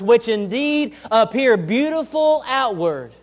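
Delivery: preacher quoting Jesus' denunciation; Jesus rebuking Pharisees. Retold or imitated. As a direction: pronounce woe on hypocrites, slowly. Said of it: "And Jesus said this of the Pharisees".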